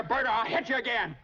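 fast furious shout; angry shout. Acted. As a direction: yell the threat at him. Threatening to hit Bert.

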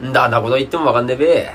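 Yamagata dialect, opening on a hummed ん. Shown as a demonstration. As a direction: grumble casually in Yamagata dialect. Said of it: "でも山形はね". (山形弁で「ん」から言い出す)

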